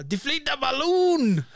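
high, drawn-out mock cry; stretched-out, high-pitched impression; high man's catchphrase. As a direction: wail it slowly, imitating someone very high. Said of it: "What was the word that he kept saying?".

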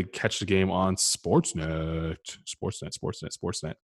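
trailing off into a whispered repeat of Sportsnet; fading, breathy sponsor chant; playful plug. Acted. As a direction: hype the network then let it fade out. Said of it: "repeating the sponsor name".

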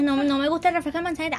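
fast, light mock complaint; quick mock whine about the apple soda; mock fussy quote. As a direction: rattle it off like a picky friend. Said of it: "que tú digas".

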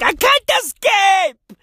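high, panicky shout; panicking. Retold or imitated. Mocked community member panicking about swimming. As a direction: wail that you can't escape. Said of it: "motherfuckers like".

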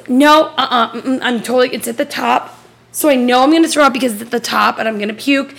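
imitated insistent child. Daughter refusing mom's doubts on phone, mock urgent insistence. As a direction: insist urgently as a sick kid would.

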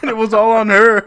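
high and loud, breaking into laughter; laughing. Real, not acted. Storyteller blaming the customer for her embarrassment, laughing. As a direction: say it between bursts of real laughter.

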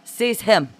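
high, loud regal command; imperious order. A narrator's reading. Juana orders the mob onto Francois, imperious. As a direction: command it as if obedience is owed. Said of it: "Juana ordered imperiously".

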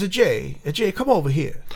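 lightly voiced Italian mom accent; a hint of an Italian mother calling. A hint of an Italian accent as mom calls her son over. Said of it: "she had the whole accent".

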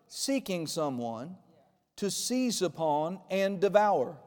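slow, deliberate reading of the verse; scripture reading. Real, not acted. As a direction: read the Bible verse slowly with weight. Reads scripture slowly.

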